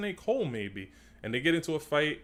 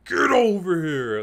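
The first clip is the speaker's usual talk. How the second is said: loud, raised, drawn-out battle cry; like he means it; 7 semitones higher, 11 dB louder than usual. Shown as a demonstration. YouTuber shows the actor how to do it, forceful shout. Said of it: "say that shit like he means it".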